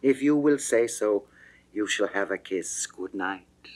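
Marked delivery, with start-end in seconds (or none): 2.9-3.7 breathy unvoiced whisper of farewell; whispered good night. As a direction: breathe it like a secret goodbye. Lover's whispered farewell quote.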